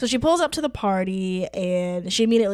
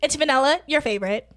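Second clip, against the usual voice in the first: bubbly friend voice; faster than usual. Retold or imitated. Voicing friend Bethany.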